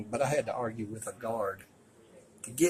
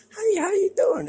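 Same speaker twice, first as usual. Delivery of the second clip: imitating a friendly greeting in French-accented English, high and loud; a quick hammed-up French-accented hello; 8 dB louder than usual. Vlogger imitates the young soldier greeting him, French-accented English. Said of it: "broken English with French accent".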